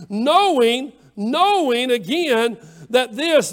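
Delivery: loud, drawn-out pulpit emphasis; slow, forceful preacher's delivery; emphatic preaching. Real, not acted. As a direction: stretch the key word out loudly. Preacher hammers a repeated word.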